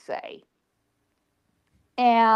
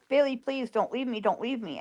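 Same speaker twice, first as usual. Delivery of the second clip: begging; 6 dB quieter than usual. Retold or imitated. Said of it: "I was just begging".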